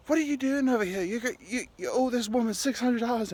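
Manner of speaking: high-pitched scolding from the bench; mock an angry TV judge, pitch jumping up; angry Judge Judy. Judge Judy berating a defendant over six hundred dollars, angry. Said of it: "she's angry".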